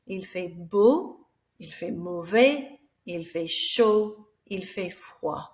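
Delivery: slow, careful French model phrases; French weather phrases. Shown as a demonstration. Teacher modelling French for pupils, slow and clear. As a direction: say each French phrase slowly for the class. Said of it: "So these ones are adjectives".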